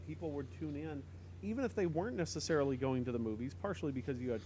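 bad connection cutting out; fading in and out. Real, not acted. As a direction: voice dropping on a bad line. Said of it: "you're fading in and out".

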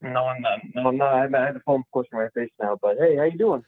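muffled bass only; muffled phone. Real, not acted. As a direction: voice muffled as if under a pillow. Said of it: "it sounds like you're under a pillow".

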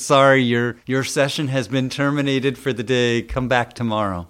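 half-joking robotic cutoff notice; mock system message. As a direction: read it like a stiff computer announcement. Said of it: "it says".

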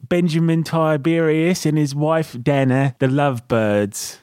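mock British announcement; British accent. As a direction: introduce them in a put-on British accent. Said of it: "Again, impeccable British accent".

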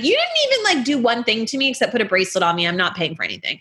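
mock outrage tumbling out quickly; retold indignant protest. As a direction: act out refusing to pay. Retold indignant walkout over bills.

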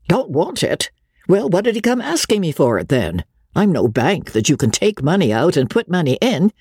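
lightly voiced, brusque disbelief; a touch of irritated businesswoman; madam scoffing at the returned money. Hetty scoffs at refusal.

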